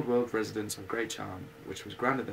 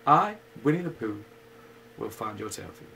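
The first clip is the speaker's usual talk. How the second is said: solemn; 6 dB louder than usual. Acted. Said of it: "he said solemnly".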